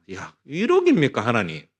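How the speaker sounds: retold angry complaint. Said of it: "얼마나 하나님께 내가 원망을 했는지".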